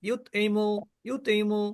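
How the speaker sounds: ইউতইমু said short and quick, ত closed flat; without qalqala. Shown as a demonstration. Teacher shows the wrong way, quick and flat. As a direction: clip ইউতইমু with no echo on ত. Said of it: "এখন তো আমি কলকলা না করি".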